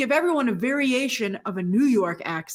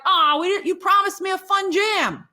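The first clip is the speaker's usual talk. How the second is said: hammed-up indignant whine, raised; mock complaint; 5 semitones higher than usual. Viewer griping at the movie, hammed-up indignant whine.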